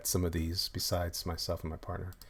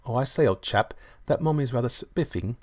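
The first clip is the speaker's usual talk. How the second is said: hammed-up English gent accent, slightly raised; amateur English accent, a touch louder; 3 semitones higher, 4 dB louder than usual. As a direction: do a bad posh-chap English accent. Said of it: "English accent".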